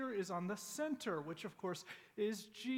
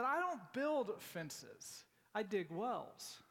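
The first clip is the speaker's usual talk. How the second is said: slow, weighty farmer's reply; 2 semitones higher, much slower than usual. Retold or imitated. Preacher retelling the farmer's answer, slow and deliberate. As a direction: let each word land, very slowly. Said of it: "but I'm not gonna try that".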